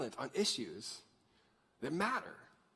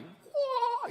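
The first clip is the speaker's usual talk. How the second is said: high-pitched drawn-out whoa; demonstrated "whoa". Shown as a demonstration. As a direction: let out a high, wordless whoa. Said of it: "you gotta say it like, you're like".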